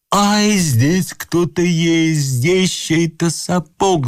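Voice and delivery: high, drawn-out alarm; slow, high cry of discovery. A narrator's reading. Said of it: "закричал муж".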